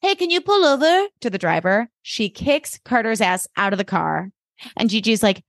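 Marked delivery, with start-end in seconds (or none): 0.0-1.1 high-pitched acted demand; mock pissed off. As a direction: call to the driver in high mock annoyance. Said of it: "And S is pissed".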